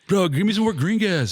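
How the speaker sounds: high mocking whine; hammed-up cartoon-style bratty kid; South Park kid. Mimicking airsoft kids like a South Park episode, high whiny voice. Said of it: "It's like that South Park episode".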